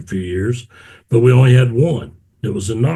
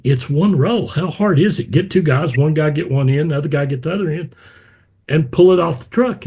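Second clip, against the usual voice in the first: raised, exasperated instructions; impatient retold order; 4 semitones higher than usual. Recalling ordering a worker to unload carpet, mock impatience. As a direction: bark it out as if it's obvious. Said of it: "And I said".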